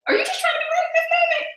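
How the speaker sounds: high, mock-stern self-correction; a voice in her head telling her to drop it; inner self-check voice. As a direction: scold yourself in a high voice. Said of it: "I'm able to check myself".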